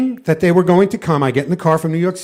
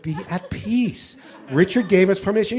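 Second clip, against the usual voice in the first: serene calm; 2 semitones higher, 4 dB quieter than usual. Retold or imitated. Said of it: "And Mother Gamlam said".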